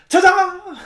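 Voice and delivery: high, loud flourish; triumphant show-off. Acted. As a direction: sing out a stage flourish. Character lands stunt, shows off.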